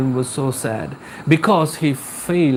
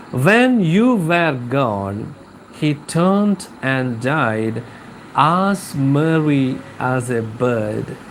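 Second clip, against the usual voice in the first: slow, lowered reading of the stanza; poem recitation. Acted. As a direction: read the wife's words like a ballad, drawn out. Reads the stanza slowly.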